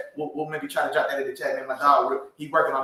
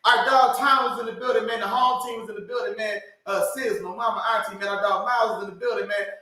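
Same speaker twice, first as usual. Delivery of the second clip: higher, eager roll call of names; excited shout-outs; 5 semitones higher than usual. Real, not acted. Host shouts out family and friends, excited. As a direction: call out each name with pride. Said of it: "I lost my voice".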